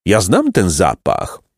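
slow, wondering recognition; amazed. Acted. Jacek smelling the wind, amazed. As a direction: savour the discovery slowly. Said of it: "rzekł z największym podziwem".

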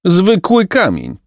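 slow, high, angry exclamation; boy angrily calls out on finding a stone, not gold. A narrator's reading. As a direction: spit it out, let down and cross. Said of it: "zawołał z gniewem Jacek".

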